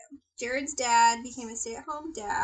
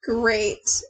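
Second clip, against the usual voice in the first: forced reassurance; 3 semitones higher, 12 dB louder, much slower than usual. Acted. Forced self-reassurance after doubt.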